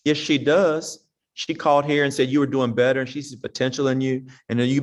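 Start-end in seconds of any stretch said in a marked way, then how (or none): 0.0-1.1 firm mother. Retold or imitated. Mother answering the child.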